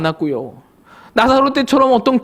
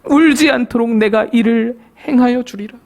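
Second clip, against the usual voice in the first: solemn promise. Acted. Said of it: "이렇게 말씀합니다".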